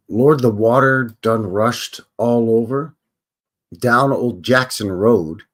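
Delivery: slow drawn-out blues talk; slow imitation of the singer. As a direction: drag the line out like the old singer. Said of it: "he says".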